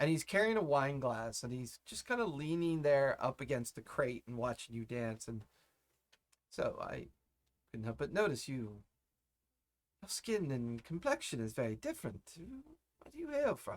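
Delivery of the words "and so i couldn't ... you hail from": polished, courtly elven noble voice, sing-song. Voicing a refined elven noble who watches a dancer: refined elven noble voice. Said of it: "He feels like a noble classman".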